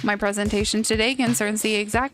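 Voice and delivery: flat, uninterested line reading; bored voice. Acted. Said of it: "I'm getting my bored voice ready".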